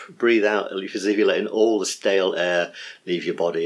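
lightly guided release of breath. Shown as a demonstration. Teacher demos the out-breath, mild meditation voice. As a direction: let the stale air go, gently. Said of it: "this is one I got from Bethany".

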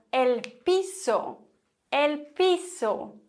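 piso with an ordinary hissed S; slow el piso, plain S in the middle; normal S sound. Shown as a demonstration. Teacher gives another example, plain S in piso. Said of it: "ganz normal mit S".

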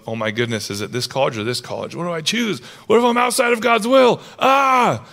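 anxious muttering that climbs to a panicked cry; fretting over which college, building to a yelp; mock panic. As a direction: play the worried student spiralling into panic. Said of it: "gripped with anxiety or fear".

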